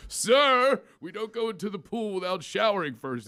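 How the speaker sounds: a sharp "Sir" shouted at a guest, then scolding; stern yell. Retold or imitated. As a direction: call out Sir like an attendant scolding. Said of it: "He goes".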